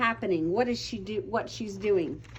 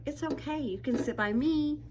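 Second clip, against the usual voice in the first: comforting friend; 4 semitones higher than usual. Retold or imitated. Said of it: "coming in and going".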